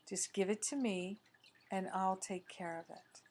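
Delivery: lightly voiced loving husband as God; loving God figure. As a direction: gently offer to carry the burden, unhurried. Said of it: "representing the infinite love of God".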